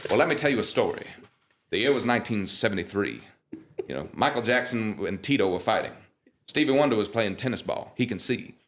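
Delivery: lightly voiced storyteller star, leisurely; famous singer impression. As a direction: spin an old tale as a laid-back legend. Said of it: "these voice impressions are spot on".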